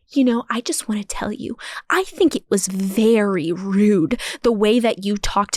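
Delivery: creaky whisper. Retold or imitated. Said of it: "creaks her way over the seat".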